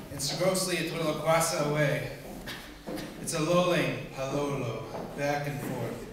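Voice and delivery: emphatic nonsense verse, punched key words; measured mock-serious verse reading; poem recitation. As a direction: recite odd words with deliberate relish.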